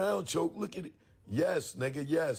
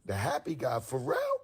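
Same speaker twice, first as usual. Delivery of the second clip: surprised. Retold or imitated. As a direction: shriek the name as it dawns on you. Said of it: "I said".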